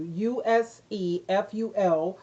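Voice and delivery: spelling it letter by letter, slowly; U S E F U L said slowly as separate letters; spelled out. Shown as a demonstration. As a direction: spell out each letter of USEFUL. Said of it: "let me spell that for you".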